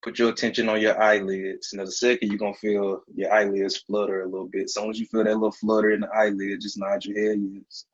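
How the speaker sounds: steady, coaxing hypnotist voice; hypnotic induction. Acted. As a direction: talk them under like a stage hypnotist.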